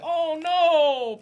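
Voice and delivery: high, loud mock gasp. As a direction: gasp it like a shocked kid. Acted reply in retold scene.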